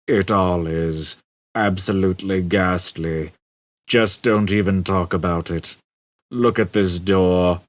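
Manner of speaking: slow, gloomy robot drone; weary, hopeless android voice; depressed robot. Acted. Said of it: "he said".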